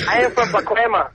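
weak fake Mexican accent; hammy put-on Spanish accent; bad Spanish accent. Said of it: "that's a pretty bad Spanish accent".

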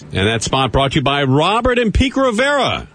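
hammed-up radio sponsor tag; mock sponsor announcement. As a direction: play up the sponsor credit, swooping pitch. Mock sponsor credit after bad joke.

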